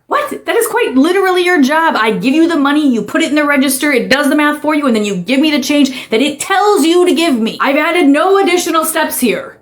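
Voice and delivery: incredulous, pressing each step; exasperated customer. Acted. Customer explaining the cashier's own job, exasperated.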